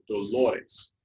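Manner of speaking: "Dolores" with weight on the middle syllable, do-LO-res; stress on LO. Shown as a demonstration. Teacher asking where the accent is, "Dolores" stressed on LO. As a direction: lean on the second-to-last syllable of "Dolores". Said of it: "got the accent?".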